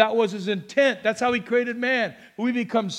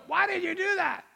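high but softer imitation of her; indignant questioning tone; 8 semitones higher, 4 dB quieter than usual. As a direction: mimic her high-pitched challenge, held back. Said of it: "That was her tone".

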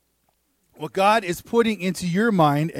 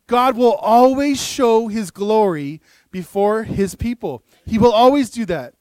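slow, louder sermon declaration; preaching at full force; 5 dB louder than usual. Real, not acted. Pastor driving home the lesson to the congregation, forceful preaching. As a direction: proclaim it to the room with full conviction.

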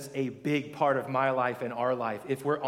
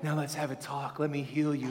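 gentle healing God. Retold or imitated. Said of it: "He's like".

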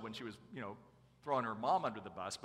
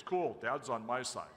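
put-on triumphant teen; 5 dB louder, slower than usual. Imitates daughter's premature triumph.

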